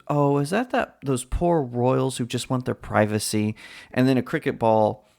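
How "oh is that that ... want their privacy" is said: lightly voiced sympathetic police officer. Police officer answering a complaint about the royals, lightly acted sympathy. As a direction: play a mildly pitying cop on the phone. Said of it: "And the police officer goes".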